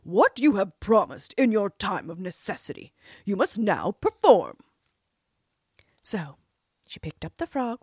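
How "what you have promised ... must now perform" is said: louder, stern fatherly rebuke; angry king. A narrator's reading. King angrily scolding his daughter, louder. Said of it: "grew angry with her".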